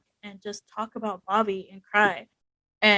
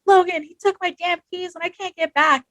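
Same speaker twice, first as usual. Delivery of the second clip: higher, louder retold whine about the keys; imitating upset complaint; 8 semitones higher, 4 dB louder than usual. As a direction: act out your younger self venting to a friend. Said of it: "I'm like".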